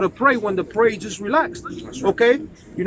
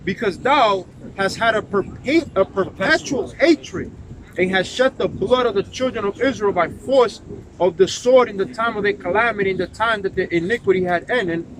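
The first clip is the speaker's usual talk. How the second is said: scripture reading. Acted. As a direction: read the verse out with weight. Reads scripture aloud.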